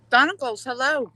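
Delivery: bright high hello to a newcomer; cheery greeting. Real, not acted. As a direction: call out a happy welcome. Greeting a viewer, high and loud.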